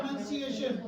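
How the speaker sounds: "प्रोनंसिएशन" with a short "nun" in the middle; corrected pronunciation. Shown as a demonstration. Teacher confirming the student's answer, corrected pronunciation. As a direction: say "प्रोनंसिएशन" as pro-nun-see-ay-shun. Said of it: "क्या होगा?".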